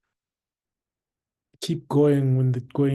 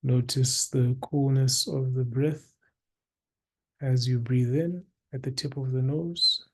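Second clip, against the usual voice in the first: guided meditation. Acted. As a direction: guide listeners into stillness, unhurried, with long pauses.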